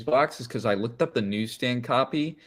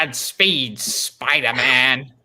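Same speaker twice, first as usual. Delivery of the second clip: slow, loud dramatic send-off; solemn farewell; 7 dB louder, much slower than usual. Pretend. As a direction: intone it like a eulogy.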